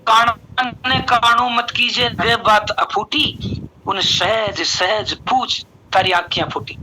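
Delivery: slow, drawn-out verse recitation; recited folk couplet. Acted. Trainer quoting a proverb on gentle speech, slow verse recitation. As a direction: recite the old saying slowly, word by word.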